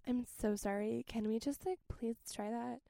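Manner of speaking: soft, slow meek apology; lightly voiced timid bandmate; shy apologetic voice. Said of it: "I don't know why I did that voice".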